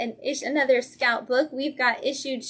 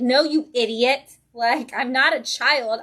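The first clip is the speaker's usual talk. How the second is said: put-on louder, slow, irritated retort as the bitter child vampire; snapping vampire girl; 2 semitones higher, 5 dB louder, slower than usual. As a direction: scold her babysitter like an idiot, slowly and louder. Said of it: "She's like".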